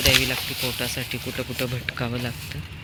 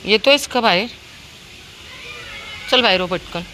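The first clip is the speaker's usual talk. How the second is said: calling the dog. Real, not acted. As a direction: yell for him to come out.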